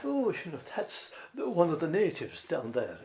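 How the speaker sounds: high, sneering posh voice; mock a condescending city broadcaster; snobbish Dublin voice. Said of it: "people in Dublin, uh, especially in R T E".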